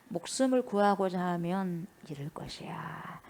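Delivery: whispered "목숨을 구하고자 하면 잃을 것이야" slowly, without voice; hushed, slow whisper of Jesus' warning. Acted. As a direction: breathe the warning as a slow secret. Repeats the line in a whisper.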